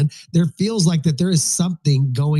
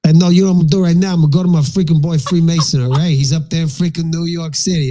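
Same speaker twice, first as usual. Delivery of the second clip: fast, louder hype-man build-up; hyped call-out; 2 semitones higher, 5 dB louder than usual. Acted. Host hyping up his friend Freemason, fast and loud. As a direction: pump up the room before bringing someone in.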